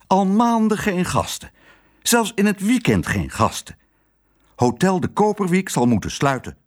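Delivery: high, fretful voice of the worried owner; a despairing husband lamenting the empty hotel; gloomy hotel owner. A narrator's reading. Hotel owner complaining to his wife, high and gloomy. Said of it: "Hij praatte somber".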